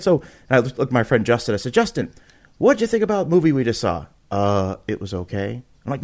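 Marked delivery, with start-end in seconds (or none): 1.7-4.1 high, quick, amped-up host question; radio DJ. Retold or imitated. Host asking his friend Justin about the movie, eager radio DJ. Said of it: "turn into this radio D J". 4.3-5.6 unenthusiastic reply. Retold or imitated. Unimpressed friend answering eager host.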